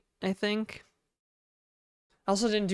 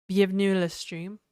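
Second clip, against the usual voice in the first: mock French accent. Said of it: "my terrible French accent".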